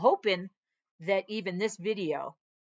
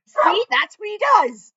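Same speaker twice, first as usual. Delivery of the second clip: exasperated aside; 10 semitones higher, 12 dB louder, slower than usual. Real, not acted. Dog barking again.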